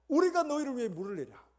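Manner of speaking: high, loud outraged shout; furious Moses. Acted. Moses raging at the people over water, furious shout. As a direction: yell it as an angry challenge. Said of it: "모세가 성질이 너무 난 겁니다".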